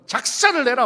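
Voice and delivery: loud, punchy Gyeongsang-style command; Gyeongsang dialect. Acted. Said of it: "경상도 말".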